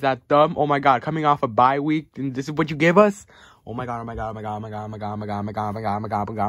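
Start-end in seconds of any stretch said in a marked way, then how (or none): 3.7-6.5 scared muttering. Real, not acted. Fan worries about the team, scared chanting under the breath. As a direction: run the words together in a nervous loop. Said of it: "I'm scared".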